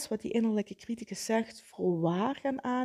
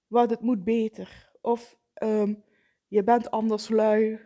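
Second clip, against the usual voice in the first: harsh inner critic; 6 dB louder than usual. Retold or imitated.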